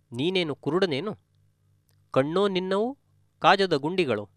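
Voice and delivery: a mild mock yell at a stranger; half-acted angry rebuke, rising to the end; retold scolding. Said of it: "ಅದೇ ಶಬ್ದಗಳಿಂದ ನನ್ನನ್ನು ಬೈದಿದ್ದಾನೆ". (ಸ್ವಲ್ಪ ಕೋಪದ ಅಣಕು ಬೈಗುಳ)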